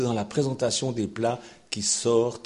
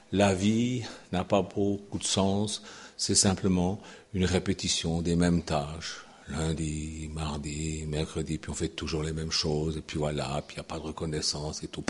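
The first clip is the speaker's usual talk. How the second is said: weary complaint; 6 semitones lower than usual. Acted. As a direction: sigh out the dull routine. Voicing the weary believers. (plainte lasse, plus grave et douce)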